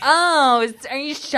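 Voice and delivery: lightly put-on Valley Girl voice. Host mocking how women supposedly talk, light Valley Girl voice.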